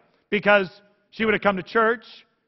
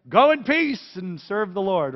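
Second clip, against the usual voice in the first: liturgical dismissal; 4 semitones higher, 5 dB louder, slower than usual. Retold or imitated. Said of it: "We say that".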